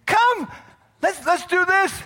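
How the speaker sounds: high eager calling; urging call. Retold or imitated. Preacher urging Naomi along with high calls. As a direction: coax them along, calling. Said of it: "I say those kind of things to Naomi".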